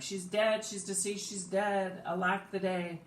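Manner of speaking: high-pitched mock wail; hammed-up, high cries of grief. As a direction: act out a freaked-out lament. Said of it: "She's probably wailing".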